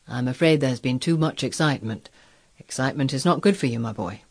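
lightly voiced, sober physician; subdued, grave doctor's advice; cautioning doctor. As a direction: gently warn a young patient.

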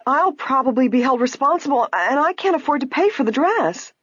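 high-pitched, plaintive worry; woebegone wail. A narrator's reading. Clerk fears paying for the dress, woebegone wail. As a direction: lament it as a hopeless misfortune. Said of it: "the woebegone clerk wailed".

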